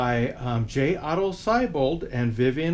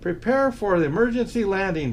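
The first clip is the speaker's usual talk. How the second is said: instructing Santa; 4 semitones higher, faster than usual. Acted. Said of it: "Santa instructed".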